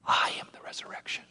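breathy whisper, no voice at all; whispered declaration. Acted. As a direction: breathe the words out as a hushed secret. Repeated as a whisper.

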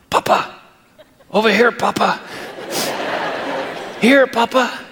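put-on high, giggly little-kid voice; hiding toddlers calling. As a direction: call out like a child who wants to be found. Hiding kids calling grandpa.

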